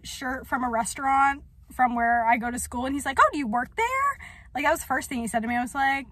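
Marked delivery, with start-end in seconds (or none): 3.2-4.2 much higher, bright mock question. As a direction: squeak out his question in mockery. Imitating the man's question.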